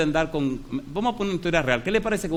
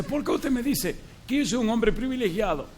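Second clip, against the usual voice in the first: retold angry question; 8 semitones higher than usual. Angry dying man challenges pastor.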